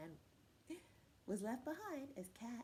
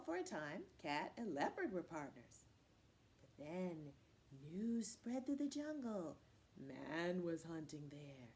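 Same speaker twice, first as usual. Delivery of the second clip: plain reading voice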